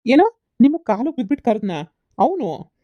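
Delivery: loud, slow, disbelieving question; he can't believe what he's hearing; incredulous. Acted. Son-in-law questions the mother-in-law's claim in loud disbelief.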